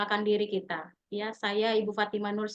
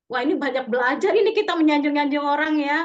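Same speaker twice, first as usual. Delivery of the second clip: tertawa geli; 3 semitones higher, 6 dB louder, faster than usual. Real, not acted. Guru berkomentar sambil tertawa.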